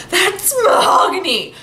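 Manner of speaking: a hint of Effie's theatrical exclaim; Effie impression. Fan imitating Effie's famous line, hammed-up. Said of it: "when Effie went".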